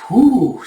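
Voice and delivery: high, loud whew; impressed whew. Acted. Bandit seeing Yona unhooded, high impressed whew. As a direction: let out an admiring whew. Bandit reacts to her looks.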